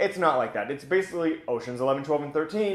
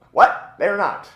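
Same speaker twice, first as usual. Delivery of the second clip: a loud, startled "What?"; loud stunned what; surprised outburst; 6 semitones higher, 10 dB louder, slower than usual. Real, not acted. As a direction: blurt it out in disbelief. Shock at plot twist.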